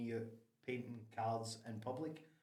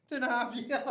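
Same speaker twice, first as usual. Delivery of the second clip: two and a half years, much higher and louder in disbelief; incredulous emphasis; 12 semitones higher, 8 dB louder than usual. Real, not acted. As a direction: repeat it in astonished disbelief.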